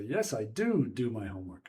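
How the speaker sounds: first "do" stressed, then "do my homework" follows; emphatic DO. Shown as a demonstration. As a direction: punch the first "do" to contradict. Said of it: "sometimes for emphasis as well".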